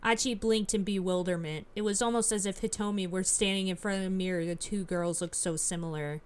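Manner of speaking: even, measured read-aloud narration; storyteller reading game text; story narration. A narrator's reading. Reads the game's narration aloud.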